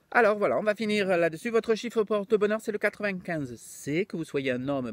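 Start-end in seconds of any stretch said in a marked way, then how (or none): 1.5-4.0 put-on accent of the Midi; southern French accent. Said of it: "Maintenant, il a l'accent du midi". 4.0-4.9 put-on low, hurried southern French accent; Mado la Niçoise. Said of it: "c'est peut-être Mado la niçoise".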